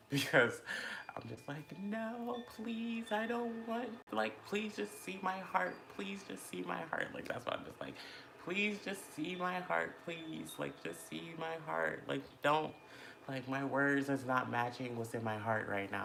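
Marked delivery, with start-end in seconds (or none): 1.8-7.1 high, slow begging whimper; mock pleading. Pleading that others see her heart, high mock begging. 8.4-16.0 mock pleading. Pleading that others see her heart, high mock begging.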